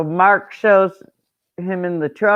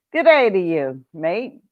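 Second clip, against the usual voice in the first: mock Australian. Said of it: "How's that?".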